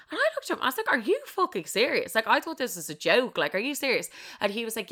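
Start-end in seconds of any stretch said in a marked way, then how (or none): 0.9-4.1 incredulous, pitched-up challenge; retelling a disbelieving outburst. Retold or imitated. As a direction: demand it in disbelief. Acts out shocked reaction to boyfriend.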